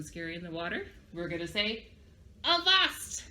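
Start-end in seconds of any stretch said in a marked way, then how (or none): 2.4-3.2 high pirate call; attention-getting call. Shown as a demonstration. Teacher showing how to get everybody's attention, calling out. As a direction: call the whole crew to attention. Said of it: "If we wanna get everybody's attention".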